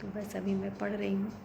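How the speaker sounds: quietly confiding to viewers at night; hushed late-night voice. Real, not acted. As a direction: keep it down for the sleepers. Still talking while family sleeps.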